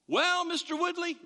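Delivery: imitating a body shop man stalling; hesitant mechanic. Pastor mimics the body shop man delaying bad news, hesitant. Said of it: "that's never a good start".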